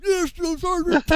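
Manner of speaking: high, slow, loud acknowledgement; hammed-up obedient yell; recruit's shouted reply. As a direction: sound off, drawing it out. Recruit sounds off.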